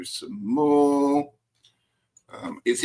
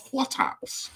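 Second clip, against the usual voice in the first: much higher, squeaky mock question; 13 semitones higher, 4 dB quieter than usual. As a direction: squeak it up, teasing. Repeating question to friend.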